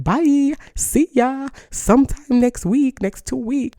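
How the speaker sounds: high, loud sing-song farewell; breezy goodbye. Pretend. Aunt dropping off her sister's kid, cheery high goodbye. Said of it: "I can be like".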